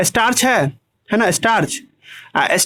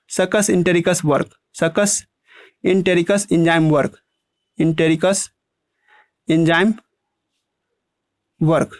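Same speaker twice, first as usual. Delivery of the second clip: word by word; 4 semitones lower, slower than usual. Shown as a demonstration. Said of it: "या सीधे लिख दे".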